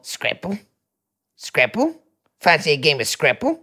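mock-British questioning voice; puzzled Brit, put-on accent. Shown as a demonstration. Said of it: "I'll just do a British one".

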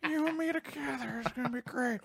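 put-on lightly done Ethiopian accent; a hint of an Ethiopian accent. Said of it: "can you do Ethiopian voice one more time for Daddy".

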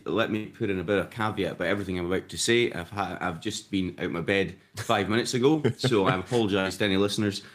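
croaky, just out of bed; groggy morning voice, a bit croaky; croaky sleepy voice. Real, not acted. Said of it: "a croaky, sleepy voice".

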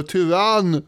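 restrained imitation of a shout; mock heckling shout. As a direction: imitate someone crying out in a crowd. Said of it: "Och någon ropar".

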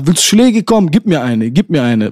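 heated retold challenge; retold angry yelling. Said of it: "richtig am Rumschreien".

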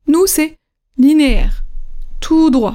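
measured, even delivery of "linéaire, tout droit"; level intonation. Shown as a demonstration. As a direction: say "linéaire, tout droit" evenly, syllables on one line. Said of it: "toujours de la même manière".

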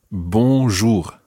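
bonjour with nasal bon and French R. Shown as a demonstration. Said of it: "pronouncing it absolutely one hundred percent correctly".

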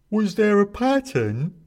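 high, slow eerie question; hooded figure. A narrator's reading. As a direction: ask it sinisterly. Figure in the capriote asks.

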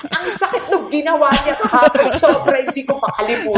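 laughing mock complaint to her surgeon; mock tattling complaint. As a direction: tell on the doctor like a kid.

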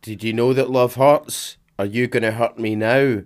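slow, hammed-up breathy-free sultry read; mock seductive woman. Co-host reading the flirty woman's lines, slow and hammed-up. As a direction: drag out each word like a mock temptress. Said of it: "I put on an accent for this podcast".

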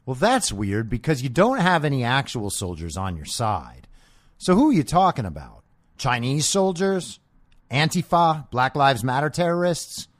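ordinary talk

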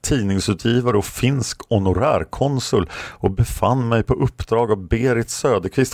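a hammed-up rage at being locked up; retold angry outburst. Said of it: "skriker till poliserna". (återberättat utbrott, högre och upprörd mot polisen)

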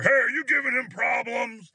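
high, mock-tough call; confrontational challenge. Second attendant challenging the driver, confrontational. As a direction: act out someone butting in aggressively.

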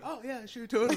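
high, laughing fake enthusiasm; "sure, totally" with a laugh; sarcastic agreement. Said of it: "I'm like".

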